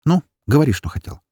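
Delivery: impatient, pushing him to talk; impatient demand. A narrator's reading. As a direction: hurry him up, mildly curt. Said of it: "я нетерпеливо потребовала".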